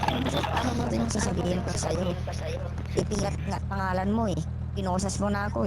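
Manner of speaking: high, disbelieving complaint; exasperated protest. Real, not acted. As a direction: argue it in disbelief. Keeps protesting the arrest.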